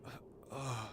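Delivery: very high, loud cry of alarm; hammed-up high-pitched panic; panicked girl character. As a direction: call out frantically for help in a high voice. Character finds Gordon hurt, calls help.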